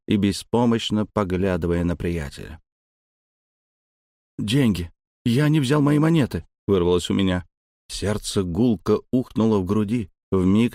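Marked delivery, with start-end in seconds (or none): 4.4-6.4 panicked blurt. Acted.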